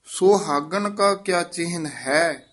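"ਸੁਹਾਗਣ ਕਾ ਕਿਆ ਚਿਹਨ ਹੈ" as one phrase, resting after "ਹੈ"; pause placement. Shown as a demonstration. Teacher marking the visram, pause after "ਹੈ". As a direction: come to rest on "ਹੈ". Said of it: "ਇੱਥੇ ਵਿਸਰਾਮ ਹੈ".

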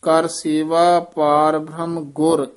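ਕਰ ਸੇਵਾ ਪਾਰ ਬ੍ਰਹਮ ਗੁਰ falling to a stop on ਗੁਰ; pause after phrase. Shown as a demonstration. Teacher marking the verse break, pause after ਗੁਰ. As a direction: rest firmly after ਗੁਰ. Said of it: "ਇੱਥੇ ਵਿਸਰਾਮ ਲਾਉਣਾ ਹੈ।".

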